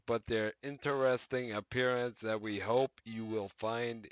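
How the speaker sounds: brighter announcer reading voice; news article read. Acted. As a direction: read it like a patch news post.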